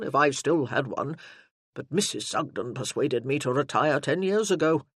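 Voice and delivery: lightly voiced general complimenting the sergeant; approving old general. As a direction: praise him like a pleased commander.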